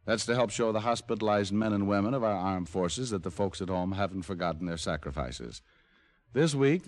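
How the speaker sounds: brisk radio commercial read, running fast through the list; sponsor ad read. Acted. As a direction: rattle off the sponsor message like a host. Star reads sponsor message.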